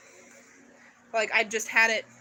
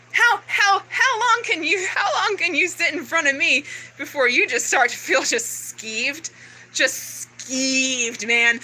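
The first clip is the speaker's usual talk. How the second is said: agitated challenge; 2 semitones higher than usual. Real, not acted. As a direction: confront them, pitch jumping up on HOW. Agitated, confronting rant at listener.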